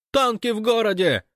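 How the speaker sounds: high, loud and gleeful shout down the phone; joyful yell. Acted. Fyodor on the phone to Gosh, yelling joyfully. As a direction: bellow the news like it's a party. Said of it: "проорал дядя Фёдор звонко и радостно".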